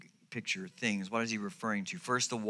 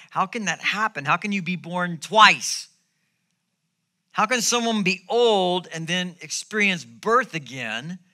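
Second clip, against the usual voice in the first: louder, higher, struggling to understand; baffled questioning; 6 semitones higher, 8 dB louder than usual. Acted. Preacher voices Nicodemus puzzling over Jesus's words, baffled and loud. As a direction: voice a man wrestling with an impossible idea. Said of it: "Nicodemus trying to wrap his mind around".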